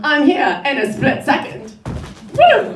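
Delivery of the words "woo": high, loud cheer; excited whoop. Real, not acted. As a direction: let out a burst of triumph. Cheering her own split second.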